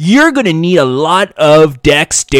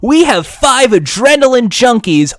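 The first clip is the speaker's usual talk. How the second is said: surfer dude host; 6 semitones higher than usual. Retold or imitated. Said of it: "the surfer dude voice".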